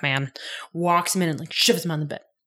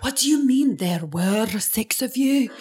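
slow, higher-pitched mock disbelief; hammed-up incredulous question; 5 semitones higher, slower than usual. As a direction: act out a baffled demand, drawn out. Acts out Ian questioning the boy.

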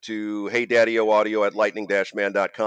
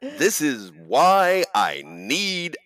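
laughing; 3 semitones higher than usual. Real, not acted. Mock announcement, laughing.

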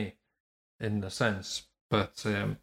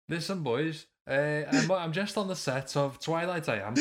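put-on English accent; 5 semitones higher than usual. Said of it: "Robert Pattinson".

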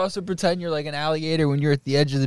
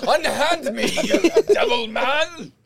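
fluttering cries for help; 11 semitones higher, much slower than usual. Acted. Acting the caught intruder, laughing.

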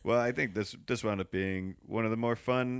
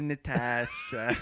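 menacing; much slower than usual. Retold or imitated. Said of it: "Rebecca goes".

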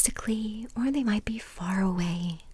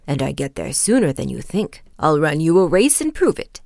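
lightly voiced, determined tortoise; 4 semitones lower, 11 dB louder, faster than usual. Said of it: "replied the tortoise".

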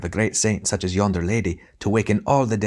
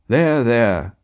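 grand tragic wailing; 3 semitones higher, 4 dB louder than usual. Acted. Tragedian consoling lady theatrically.

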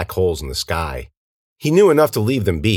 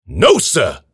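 loud, raised-pitch objection; yelled protest; 7 semitones higher, 6 dB louder than usual. A narrator's reading. Old man objects to the attack, yelling. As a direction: yell it to stop them. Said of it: "Ian yelled".

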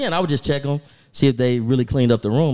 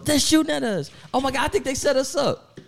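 panicked yelling; 12 semitones higher than usual. Retold or imitated. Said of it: "she's, like, yelling to me".

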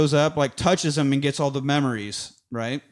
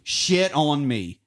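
slow quote; much slower than usual. Retold or imitated. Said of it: "Gideon's line of".

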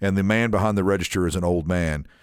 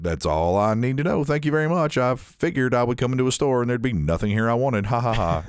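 mildly hammed-up exasperation with a fake laugh; kinda dramatic; 2 semitones higher than usual. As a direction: play up a sarcastic thank-you, lightly theatrical. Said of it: "it was kinda dramatic".

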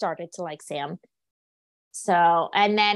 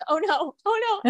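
mock panic; 12 semitones higher than usual. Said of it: "I'm like".

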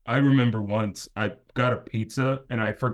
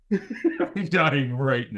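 laughing; 2 semitones higher, much slower than usual. Real, not acted. Laughing at friend's joke.

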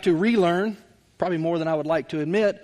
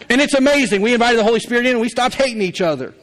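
excited testimony; 4 semitones higher, 3 dB louder, faster than usual. Real, not acted. Marriage rescued, excited testimony.

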